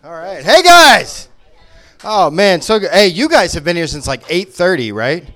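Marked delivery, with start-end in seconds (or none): 0.4-1.3 high, loud call to the room; loud greeting. Real, not acted. Comic coming on stage to the audience, calling out. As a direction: hail the whole crowd.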